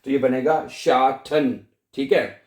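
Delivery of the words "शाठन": शाठन slowly with a breathy-released T; T as aspirated ठ. Shown as a demonstration. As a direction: say शाठन as "shaa-than". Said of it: "टी को आपने ठे की आवाज में".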